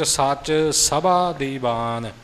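ਸਭਾ in ਸੱਚ ਸਭਾ ਦੀਵਾਨ loose and undoubled; soft pronunciation. Shown as a demonstration. Teacher quoting the last pauri line, soft ਸਭਾ. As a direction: keep the ਭ of ਸਭਾ light. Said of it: "ਕੱਸ ਕੇ ਸਭਾ ਪੋਲਾ ਨਹੀਂ ਹੋਵੇਗਾ".

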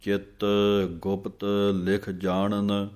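slow, measured recitation of scripture with careful pauses; slow Gurbani recitation. Shown as a demonstration. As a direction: recite each word deliberately for students to copy. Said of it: "ਇੱਥੇ ਜਿੰਨੀ ਵਾਰੀ ਵੀ ਪਾਠ ਆਉਣਾ ਹੈ".

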